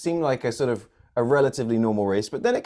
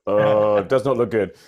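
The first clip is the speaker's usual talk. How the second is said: mock magic eight ball; 5 semitones lower, 3 dB louder than usual. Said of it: "with a magic eight ball".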